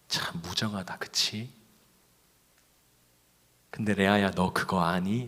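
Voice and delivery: lightly voiced gentle God, consoling; a hint of God's tender consolation. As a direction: speak to a hurt woman like a kind, comforting God. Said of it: "이렇게 얘기하셨어요".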